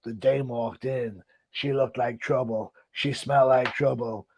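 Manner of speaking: slow, hard-boiled narrator voice; a hint of a forties private eye; noir detective. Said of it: "I can just imagine he's in a voice".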